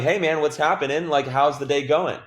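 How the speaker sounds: bright, quick hello to a new caller; opening a sales call with a quick upbeat hello; quick upbeat greeting. Shown as a demonstration. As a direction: come in a little hot and friendly. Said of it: "just come in quick".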